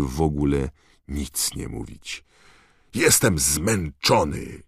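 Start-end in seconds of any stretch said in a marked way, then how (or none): 2.9-4.6 shouted. Acted. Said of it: "wrzasnął w końcu".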